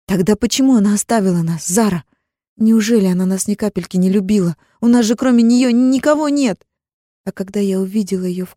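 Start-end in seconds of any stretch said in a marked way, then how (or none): 0.1-6.6 high, loud pleading cry; grieving cry. Acted. Girl asks why mother left them, loud tearful cry. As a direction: beg for an answer through tears.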